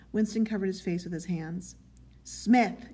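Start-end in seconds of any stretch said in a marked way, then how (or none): 2.3-2.9 sharp, louder call of the surname; yelled. A narrator's reading. Telescreen voice catches Winston covering his face, yelling. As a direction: call out like an official giving orders. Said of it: "yelled the voice from the telescreen".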